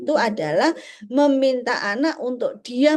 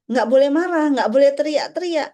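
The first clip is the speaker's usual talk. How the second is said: a louder, stern parent telling off; mock scolding; 3 semitones higher, 5 dB louder than usual. Parent scolding an angry child with a firm mock telling-off. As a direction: snap the rule at the child.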